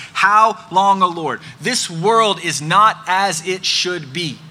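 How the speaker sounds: a loud, heartfelt plea that slows down; crying out to God. Retold or imitated. Preacher voicing David crying out to God, loud and slow. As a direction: cry it out from deep in the soul, then slow. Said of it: "where he cries out from deep within his soul".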